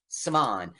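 "Svan" said with a broad ah vowel; "Svan" deliberately said as Svahn; mispronounced name. Shown as a demonstration. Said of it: "I'm saying it, yeah, I'm insulting him".

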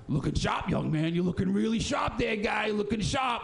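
mock cheery shout. Petey calling out to the dressed-up kid, mock cheerful. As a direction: call out to the passer-by with fake cheer. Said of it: "And he's like".

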